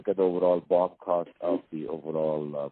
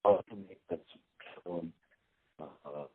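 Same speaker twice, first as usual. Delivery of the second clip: choppy, dropping phone line; breaking up space radio; 7 dB quieter than usual. Real, not acted. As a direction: voice cutting in and out. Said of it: "You, you're breaking up here".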